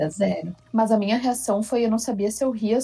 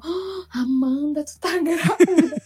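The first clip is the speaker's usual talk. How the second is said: amused announcement; 4 semitones higher, slower than usual. Retold or imitated. Friend announces the pregnancy test result.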